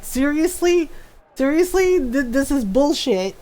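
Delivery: high, exasperated seriously; a hint of Ron fed up; imitating annoyed husband. Mimicking her husband getting fed up, exasperated. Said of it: "Or going".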